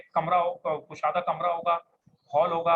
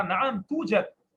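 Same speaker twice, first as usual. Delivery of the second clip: slow model reply; 2 semitones higher, much slower than usual. Shown as a demonstration. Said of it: "اب اس نے کہا".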